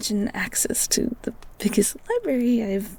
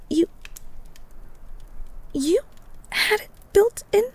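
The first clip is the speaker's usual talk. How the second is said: higher, startled question; surprised; 8 semitones higher than usual. Acted. Girl shocked at the beast's secret, surprised. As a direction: gasp at the news.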